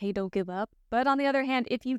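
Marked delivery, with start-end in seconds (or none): 0.0-0.7 whispering. Voicing the Wheel and the Magician cards urging not to give up: whispering. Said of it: "whispering to you".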